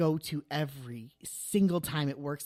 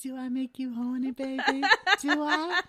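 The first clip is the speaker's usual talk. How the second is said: a higher, hammed-up bad British accent; 8 semitones higher, 4 dB louder than usual. Teasing her co-host in a bad British accent. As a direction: ham up a terrible British accent, Austin Powers style. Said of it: "I have the worst British accent of all time".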